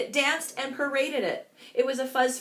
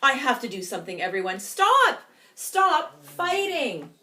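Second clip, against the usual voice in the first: little Pipsqueak yelling over the brawl; calling out; 2 semitones higher, 4 dB louder than usual. Acted. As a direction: break up the fight with a shout. Pipsqueak stops the fight.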